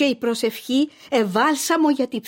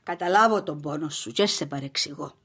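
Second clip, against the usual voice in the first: tender comfort; 4 semitones lower, 7 dB quieter than usual. Acted. Mother comforts grieving daughter.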